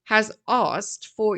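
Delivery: a light Korean accent, said slowly; lightly put-on Korean accent. Shown as a demonstration. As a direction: slip in a hint of Korean accent. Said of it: "now I'm throwing in a Korean accent".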